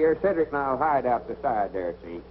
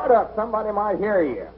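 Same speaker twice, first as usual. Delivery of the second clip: scolding; 4 semitones higher than usual. Acted. Hushes the hollering captive.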